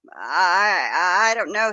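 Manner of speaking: a touch of crying, stammered; voice breaking. Retold or imitated. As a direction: let the voice crack on the stutter. Panicked caller on 911 call.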